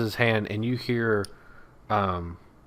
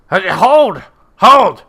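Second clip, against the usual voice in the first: high, loud goblin shouting halt; goblin challenge; 6 semitones higher, 9 dB louder, slower than usual. Acted. Goblin guard yelling at strangers, high loud challenge.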